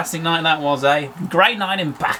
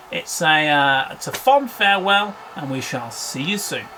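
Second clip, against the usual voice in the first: sports commentator. Acted. Commentators' closing farewell.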